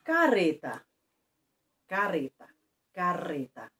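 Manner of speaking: Carreta said with a tongue-tip R, as if spelt careta; single R. Shown as a demonstration. Teacher shows pupils one R only, tongue-tip R. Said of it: "um R só".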